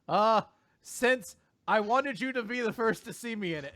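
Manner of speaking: high-pitched mock quoting; dad echoing daughter's coy line. Dad repeats girl's line back.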